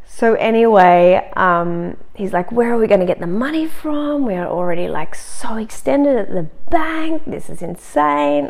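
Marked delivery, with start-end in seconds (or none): 2.5-8.5 mock-exasperated husband, rising higher and slowing; a light imitation of a fuming husband; mad husband. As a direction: pitch it up and drag it out as his disbelief grows. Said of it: "he was so mad at me".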